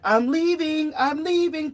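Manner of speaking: put-on a stubborn old woman storming off; huffy old lady. Old lady voiced fleeing store.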